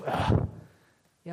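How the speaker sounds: voiceless huff of disappointment; exasperated huff. Acted. Preacher showing how Paul felt, exasperated huff. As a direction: let out a huff, acting let-down. Paulus' Enttäuschung mit Laut vorgeführt.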